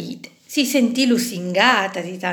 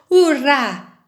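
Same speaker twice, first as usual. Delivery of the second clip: cheer; 6 semitones higher, 6 dB louder than usual. A narrator's reading. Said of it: "gridarono i calamari".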